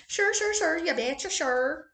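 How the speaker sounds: put-on playful Minnesota accent, "You betcha" bounced up; mock Minnesota accent. Vlogger trying out a Minnesota accent for fun. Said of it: "that Minnesota. Minnesota accent".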